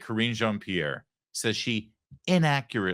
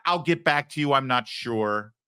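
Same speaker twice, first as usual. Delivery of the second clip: mock hesitant answer. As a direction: drag it out like a press secretary buying time.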